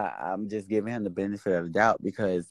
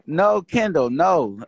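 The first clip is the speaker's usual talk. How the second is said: much higher and louder teasing "No, Kendall"; mock scolding; 8 semitones higher, 6 dB louder, slower than usual. Mocking chirpy replies to greeters.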